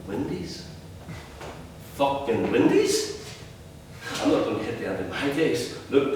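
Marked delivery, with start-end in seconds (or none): 0.1-0.7 soft incredulous Windies rising; quiet disbelief on Windies; scornful. Retold or imitated. Son doubting father's plan, quiet scorn. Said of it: "I can hear the scorn". 1.9-3.2 slow, stretched Fucking Windies with scornful rise; sneering. Retold or imitated. Son mocking father's window business, slow sneer. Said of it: "I can hear the scorn".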